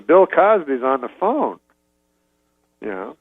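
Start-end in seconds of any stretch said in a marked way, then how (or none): 0.0-1.6 retold announcement. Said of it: "lady runs up and she goes".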